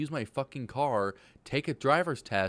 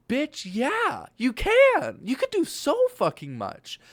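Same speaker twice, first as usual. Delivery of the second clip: high, loud mock cheer; sassy hype; 13 semitones higher, 7 dB louder, slower than usual. Imaginary friend hypes up a doubter, high sassy cheer. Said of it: "And it's like".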